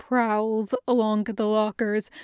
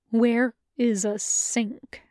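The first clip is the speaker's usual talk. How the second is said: slow, tight, biting down on pain; through gritted teeth; slower than usual. Acted. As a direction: grit your teeth and ask. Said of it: "asks the ghost through gritted teeth".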